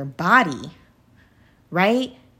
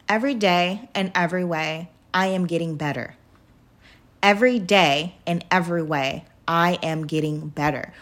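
daily affirmation; 5 semitones lower than usual. Retold or imitated. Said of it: "So I say".

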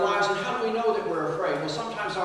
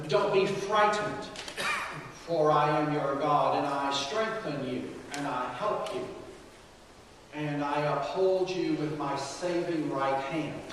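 tender fatherly voice; 2 semitones lower than usual. Retold or imitated. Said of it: "in a tender voice, in a kind voice, in a fatherly voice".

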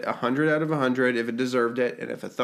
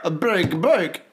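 mock French; 2 semitones higher than usual. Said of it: "French bark".

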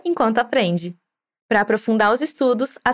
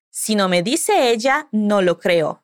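a bit irritated; 4 semitones lower, slower than usual. Retold or imitated. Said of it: "A Eva respondeu um pouco irritada".

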